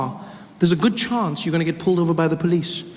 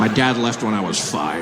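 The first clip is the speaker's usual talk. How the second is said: low, mock-wounded admission; mock-sad confession; 9 semitones lower than usual. Shooter admits abandonment issues, mock-sad and low. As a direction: confess it deep down low, hammed-up.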